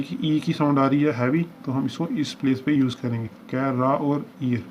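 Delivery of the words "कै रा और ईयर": "कै, रा और ईयर" said slowly as separate syllables with pauses. Shown as a demonstration. Shorthand teacher splitting कैरियर into syllables for students, slowly. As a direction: break कैरियर into कै, रा, ईयर, one at a time. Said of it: "तो ये हमारा बन गया कैरियर".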